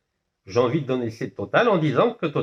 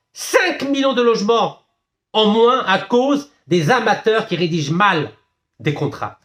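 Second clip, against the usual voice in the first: high, forceful outrage; loud-edged, high-pitched denunciation; indignant outburst; 5 semitones higher, 4 dB louder than usual. Real, not acted. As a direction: hammer it out indignantly, pitch raised. Outrage at amateurs' costly contracts.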